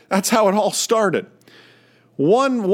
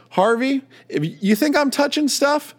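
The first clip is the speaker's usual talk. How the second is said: raised higher in exasperation, a mild mock outburst; a touch of exasperated instructor, pitched up; retold frustration; 8 semitones higher than usual. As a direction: call out his name in fed-up disbelief, then push higher. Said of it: "in a moment of frustration".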